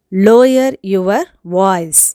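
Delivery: firm, loud command; angry demand. Shown as a demonstration. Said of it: "கோபத்தோட பேசுறதுக்கு".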